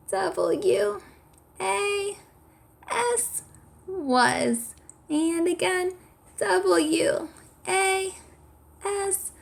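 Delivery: very high, tiny squeak; squeaky mouse voice. Pretend. Teacher spells again with children as mice, high and squeaky. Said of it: "spell it with me in a squeaky voice".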